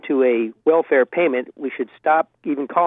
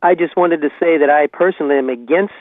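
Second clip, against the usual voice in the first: caller on a landline phone line; phone-line call-in audio; over a landline phone; 3 dB louder than usual. Real, not acted. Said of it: "calling you from my landline".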